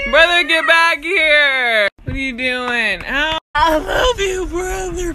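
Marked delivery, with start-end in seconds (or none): 0.1-1.9 calling out. Real, not acted. Calling brother back.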